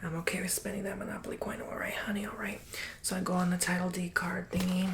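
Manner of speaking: fast breathy whisper to a listener; ASMR whisper. Acted. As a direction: whisper it close to the mic. ASMR whisper over Monopoly.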